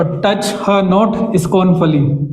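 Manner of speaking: drawn out; slow scansion. Shown as a demonstration. Teacher rereads the line slowly for its beat, drawn out. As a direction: spell out the rhythm slowly. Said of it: "अगर pattern देखेंगे तो stress".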